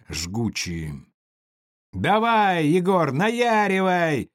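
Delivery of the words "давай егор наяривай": loud high yell, stretched slow on наяривай. Acted. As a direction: egg him on at full voice. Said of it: "орал Сивый".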